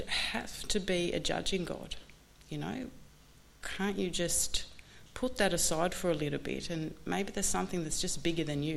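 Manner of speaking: a hint of the patient sponsor, unhurried; sponsor's gentle voice. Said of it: "And he said".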